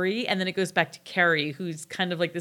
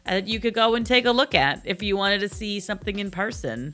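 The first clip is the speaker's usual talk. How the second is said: broad, hammed-up Jersey accent; playful, laid-on-thick New Jersey voice. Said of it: "do the whole thing in a Jersey accent".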